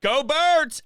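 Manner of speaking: high, loud team cheer. Real, not acted. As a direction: shout it like a fan chant. Host echoes team cheer.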